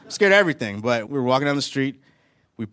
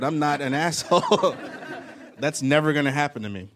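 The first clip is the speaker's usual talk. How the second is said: laughing; 5 semitones higher than usual. Real, not acted. Mocking the beaten neighbor.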